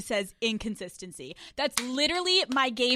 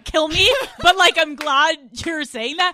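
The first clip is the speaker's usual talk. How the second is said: high, loud, laughing guy voice; high goofy guy voice; 6 semitones higher, 12 dB louder than usual. Retold or imitated. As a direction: play the flustered guy, giggly. Voicing the confused guy.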